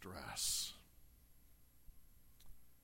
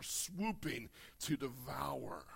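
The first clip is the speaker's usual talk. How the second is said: whispered; slower than usual. Acted. Reading of vulture image.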